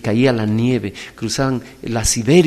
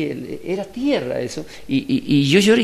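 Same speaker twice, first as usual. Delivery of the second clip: ordinary talk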